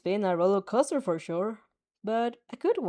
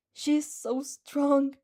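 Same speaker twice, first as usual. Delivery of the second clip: sighing; 5 semitones higher, much slower than usual. Acted. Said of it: "the Mai sighs".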